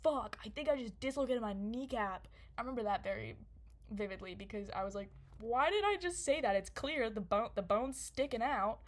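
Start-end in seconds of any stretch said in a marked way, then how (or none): 0.0-2.3 retold alarm. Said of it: "My immediate words are". 5.4-8.8 retold exasperation. Replaying own reaction to the injury.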